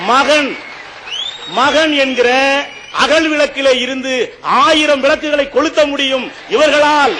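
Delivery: shouted punchline to the audience; stage shout for the punchline; rousing shout. Real, not acted. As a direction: belt the line out to win the crowd. Debate speaker's punchline to the crowd.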